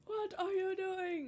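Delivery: high, slow, drawn-out question; imitated mom voice. Mom finding child stuck, mock dismay. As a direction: echo mom's dismay, stretched out.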